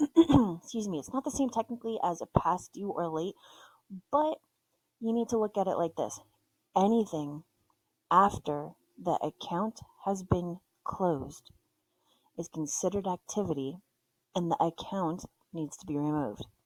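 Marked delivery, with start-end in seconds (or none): 6.8-16.5 deliberate, weighty, slow emphasis with dropped, low voice. Showing how he makes people listen to a point, slow, lowered voice. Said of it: "I slow it down and I drop my voice".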